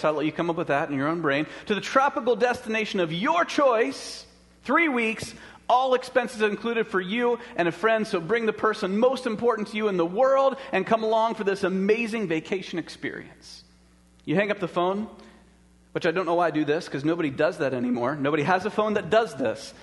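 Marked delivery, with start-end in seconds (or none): 1.7-13.6 booming prize announcer. Acted. Phone caller announcing a prize.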